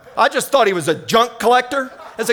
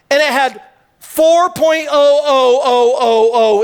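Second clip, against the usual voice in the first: slow, louder, each oh stretched out; drawn-out suspense; 4 dB louder, slower than usual. Shown as a demonstration. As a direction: count the oh's slowly to build suspense. Building up the gold amount.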